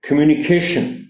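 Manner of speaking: कम्युनिकेशन, each syllable clear; model word communication. Shown as a demonstration. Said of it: "फिर मैं जोर दूंगा".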